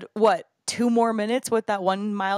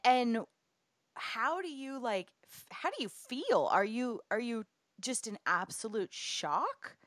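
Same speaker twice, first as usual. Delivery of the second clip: gentle; 3 dB quieter than usual. Real, not acted. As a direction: ask quietly and tenderly. Host asks gently after the birth.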